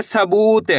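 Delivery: सबूत with a lengthened "oo"; drawn-out long vowel. Shown as a demonstration. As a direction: draw out the ू in सबूत. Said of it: "तो खींच के पढ़ेंगे".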